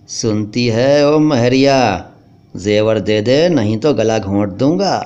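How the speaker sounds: slow, threatening thug; menacing robber. Acted. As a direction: drag the threat out to scare her.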